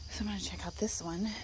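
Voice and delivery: breathy whisper, barely voiced. Real, not acted. Creeping over to the lime tree, whispered. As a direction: whisper it like you're sneaking up. Sneaking up on a plant.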